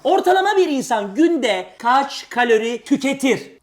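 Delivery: slow, deliberate quiz-host reading; drawn-out game-show question. Real, not acted. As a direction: spell the question out word by word.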